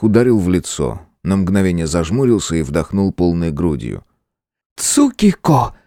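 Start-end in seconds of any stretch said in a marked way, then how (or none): 4.8-5.8 stern elder sister. A narrator's reading. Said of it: "послышался грозный голос Теруко".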